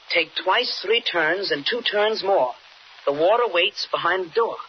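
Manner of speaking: slow, measured reading of a rhyme; reading a riddle aloud. Acted. Boy reads the old riddle to Aunt Lou, slow and measured. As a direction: read each line out slowly, like a puzzle. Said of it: "Read what it says".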